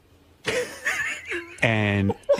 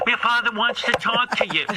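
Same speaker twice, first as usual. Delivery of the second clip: higher, a hint of a nervous mother; 11 semitones higher than usual. Son retelling mom's warning about dad, higher nervous voice. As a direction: lightly voice the worried mom's warning.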